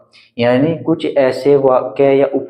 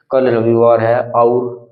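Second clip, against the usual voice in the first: "कल रविवार है और" drawn out on "और"; slow, stretched "और"; slower than usual. Shown as a demonstration. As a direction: hang on the "और" to show it. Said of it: "और लगाएंगे". ("और" को खींचकर बोलना)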